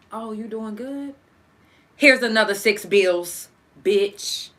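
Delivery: mocking voice of life. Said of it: "life is cussing you out like this".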